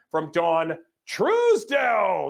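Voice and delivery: slow, loud ring-announcer style; announcer call. Real, not acted. Emcee hyping a donor's arrival, slow loud announcement. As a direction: stretch the name out like a boxing intro.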